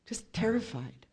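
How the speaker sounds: almost no voice, scared; hushed whispered confession. Real, not acted. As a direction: whisper the fear. Describing her fear.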